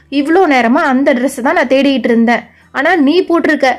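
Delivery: lightly voiced complaining teen sister; sulky younger sister. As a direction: whine at your big sister about the dress.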